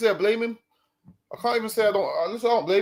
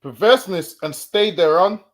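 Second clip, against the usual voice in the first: scripture reading. Acted. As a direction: proclaim the verse to the listeners. Reads scripture aloud.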